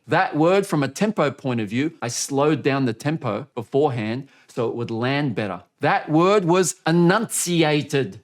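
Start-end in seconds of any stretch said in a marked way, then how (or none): 5.8-8.2 enunciated drawn out very slow; exaggerated enunciation. Shown as a demonstration. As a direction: stretch every syllable of enunciated. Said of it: "if I exaggerate it".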